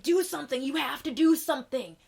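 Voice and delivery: high, loud begging shouts; desperate plea. Retold or imitated. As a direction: beg as if her life depends on it. Lear pleading desperately.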